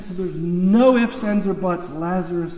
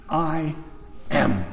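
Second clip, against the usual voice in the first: much lower, slow and weighty, with a long pause after I; solemn divine voice; 4 semitones lower, 4 dB quieter than usual. Retold or imitated. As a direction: let "I" hang, then drop "am." very low. God's answer repeated slowly.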